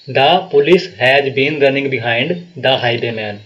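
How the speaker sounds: very slowly, word by word, like a teacher dictating; slow dictation. Shown as a demonstration. Teacher dictates the example sentence to students, very slow and deliberate. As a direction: spell the sentence out slowly for the class. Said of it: "ये वाक्य हमारे पास".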